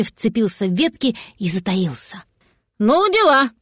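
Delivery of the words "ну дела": higher, louder astonished exclaim; surprised gasp. Acted. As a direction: gasp it out in amazement. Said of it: "охнул внизу голос".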